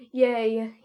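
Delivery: put-on loud, drawn-out childlike yay; childish cheer. A narrator's reading. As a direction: cheer like a delighted kid. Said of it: "you exclaimed childishly".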